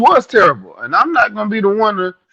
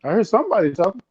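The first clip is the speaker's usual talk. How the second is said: muffled; 5 dB quieter, faster than usual. Real, not acted. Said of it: "it sounds like muffled".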